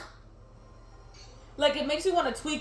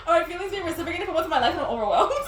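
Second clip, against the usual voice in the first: laughing rush; 4 semitones higher, much faster than usual. Acted. Second take, giggly rush.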